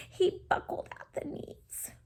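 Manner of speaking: soft unvoiced aside; whisper. Real, not acted. Reading to a child, soft whisper.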